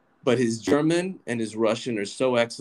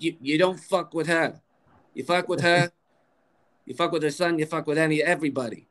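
imitated New York Jewish mother, higher pitch; New York Jewish lady; 6 semitones higher than usual. Son imitating his protective mom, New York accent. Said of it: "She talks like this".

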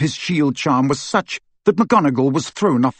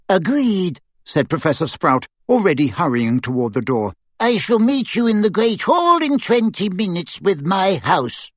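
brisk witch; 5 semitones higher than usual. A narrator's reading. Sprout hurrying.

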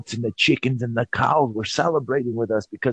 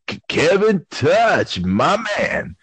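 slow, a touch higher glitch; glitching stutter; 4 semitones higher, much slower than usual. Retold or imitated. Host mimics Avi glitching, slow stutter. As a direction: stretch Kevin Touch. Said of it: "proceeded to try to say".

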